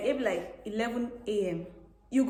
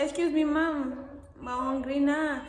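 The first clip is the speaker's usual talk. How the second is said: slow, higher student plea; imitated student plea; 5 semitones higher, slower than usual. Student interrupting a long lecture, slow imitated plea. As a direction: plead with the teacher, drawn out and pitched up. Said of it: "I say".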